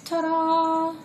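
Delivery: showy high reveal; triumphant ta-da. Pretend. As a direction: present it like a magic trick. Triumphant reveal after killing spider.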